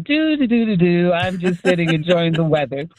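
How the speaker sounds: innocent thief. Retold or imitated. Thief on the stoop faking innocence, laughing mock hum. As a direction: hum along like a guilty man pretending nothing happened. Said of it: "building like".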